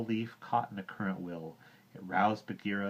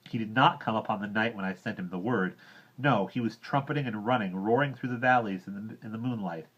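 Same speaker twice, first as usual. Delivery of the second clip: put-on louder, higher boy voice; angry complaint; 3 semitones higher, 6 dB louder than usual. Mowgli complains about Hati, loud and heated. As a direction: keep scolding, heated.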